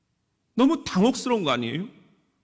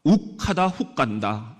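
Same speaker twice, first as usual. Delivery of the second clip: punchy slogan for the crowd to echo; call to repeat; 4 semitones lower than usual. Shown as a demonstration. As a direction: say it as a chant they repeat. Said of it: "우리 같이 한번 따라합시다". (따라 하라는 구호처럼)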